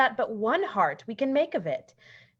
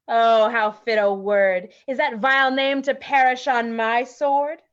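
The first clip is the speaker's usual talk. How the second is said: angry; 5 dB louder than usual. Acted. Lysander raging at Demetrius's name.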